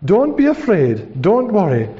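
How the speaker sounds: slow, drawn-out reassurance; calm the people with slow, swelling emphasis; steady leader rallying frightened people; reassuring the people. Acted. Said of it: "saying to your people".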